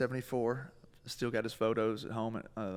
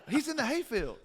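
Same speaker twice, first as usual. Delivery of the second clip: laughing mom; 12 semitones higher than usual. Retold or imitated.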